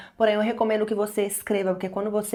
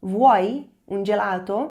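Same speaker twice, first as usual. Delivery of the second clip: louder slow repeat; 3 dB louder, slower than usual. Shown as a demonstration. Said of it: "Você quer um sorvete?".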